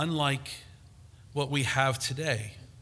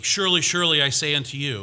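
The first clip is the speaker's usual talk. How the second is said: "Surely, surely" pushed out quick and louder; emphatic scripture quote; 6 dB louder, faster than usual. Shown as a demonstration. Preacher quoting Jesus to stress listening, quick and emphatic. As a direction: read it fast and forceful so they listen up. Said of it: "It, it means you better listen up".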